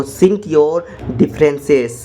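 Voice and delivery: very slow, word by word; slow dictation. Shown as a demonstration. Teacher dictating the English phrase, very slow. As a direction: lay out each word for learners. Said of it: "अपने झगड़े मिटाओ".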